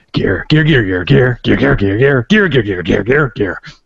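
put-on cartoon snake creature voice. Doing a snake character's line in Banjo-Kazooie style: put-on snake voice. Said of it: "And so I'm gonna do my snake again".

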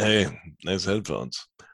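sarcastic, cynical, insincere tone. Showing how the words read from paper could sound: cynical reading. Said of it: "you could read them cynically".

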